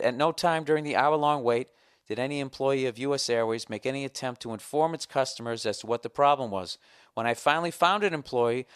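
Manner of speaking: emphatic, formal written complaint; formal letter reading. Acted. Customer reading his grievance to the airline, formal and emphatic. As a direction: declaim each grievance from the page.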